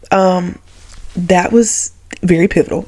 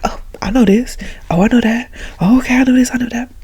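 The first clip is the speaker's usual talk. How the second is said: confident inner voice; 5 semitones higher than usual. Retold or imitated. Recalling confident test thoughts.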